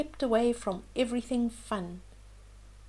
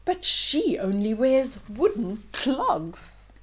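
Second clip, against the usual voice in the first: slow, louder sneering sister; sneering stepsisters; 4 dB louder, slower than usual. Acted. Stepsisters scoffing about Cinderella, slow mild sneer. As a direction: drag it out with scorn. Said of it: "laughed the ugly stepsisters".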